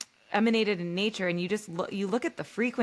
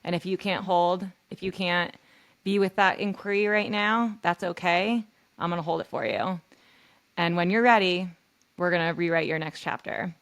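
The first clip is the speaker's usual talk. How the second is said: reassuring; 2 semitones lower than usual. Pretend. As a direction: hold her pain gently and promise hope. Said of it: "And I would say".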